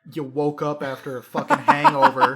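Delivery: laughing. Real, not acted. Mocking the accent while laughing.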